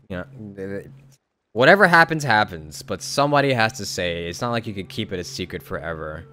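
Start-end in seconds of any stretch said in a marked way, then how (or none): none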